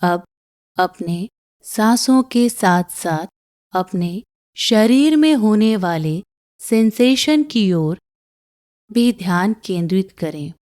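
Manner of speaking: calm meditation guide with long pauses; unhurried breathing-exercise voice; guided meditation. Acted. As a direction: guide them gently through each breath, pausing between phrases.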